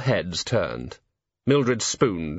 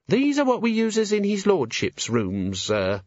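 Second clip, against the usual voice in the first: put-on high, timid servant girl; nervous young maid; 10 semitones higher, slower than usual. A narrator's reading. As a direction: stammer it out, frightened. Maid voiced.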